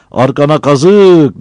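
slow, high, loud angry retort; angry inner retort. Acted. Battal curses the taunter silently, slow, high and loud. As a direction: spit it back in your head. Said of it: "dedi içinden".

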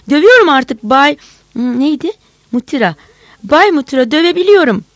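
high, loud elated shouting; joyful. A narrator's reading. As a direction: crow with delight. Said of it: "Sevinçle".

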